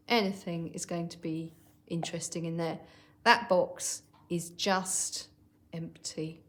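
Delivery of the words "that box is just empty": slow, dismissive sneer. Shown as a demonstration. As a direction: scoff at the box, unconvinced. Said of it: "a way that shows you don't really believe it".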